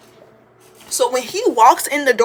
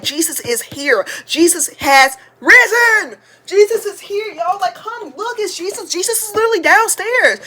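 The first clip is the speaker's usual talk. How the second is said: excited high-pitched urging, building from measured start; tweaking; 8 semitones higher than usual. Retold or imitated. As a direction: urge the cousins to come see, pitch shooting up. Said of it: "I start tweaking".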